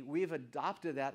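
ordinary talk

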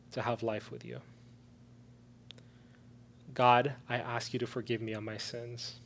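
leading prayer. Real, not acted. Preacher leads listeners in a prayer of salvation, hushed prayer. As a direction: pray gently, pausing for others to repeat.

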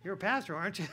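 laughing tease. Retold or imitated. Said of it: "and he goes".

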